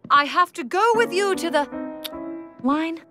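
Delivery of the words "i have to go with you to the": stagey heroine declaration; theatrical delivery. Acted. Actress repeats the prompted line for the audience, theatrical. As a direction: perform the line grandly, then break off.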